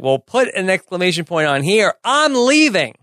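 I'm leaving, "leaving" pitched high and falling; emphatic exit line. Retold or imitated. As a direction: stomp out on "leaving". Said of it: "he says to her finally".

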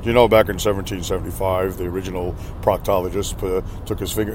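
a put-on James Earl Jones, low and grave. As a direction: go deep and grand like a famous movie narrator. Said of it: "in that James Earl Jones voice".

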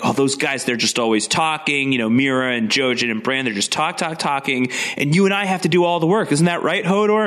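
complaining. Retold or imitated. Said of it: "Osha is complaining about".

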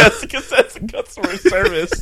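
very high-pitched cartoon brat on customer service; Cartman. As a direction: squawk it like a cartoon kid behind the counter. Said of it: "everybody at Kroger sounds like Cartman".

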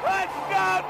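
normal talking voice

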